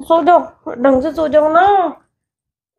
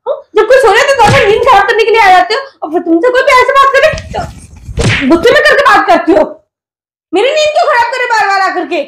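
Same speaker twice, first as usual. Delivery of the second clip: fast, loud irritated scolding; annoyed scolding; 4 semitones higher, 3 dB louder than usual. Real, not acted. Wife scolding husband for waking her, loud and fast. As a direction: tell him off for waking you.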